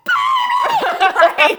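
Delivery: put-on high, slow shriek of my baby; mock scream. Kid seeing baby doll fly, high slow shriek. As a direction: wail it like a terrified kid. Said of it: "bloody murder".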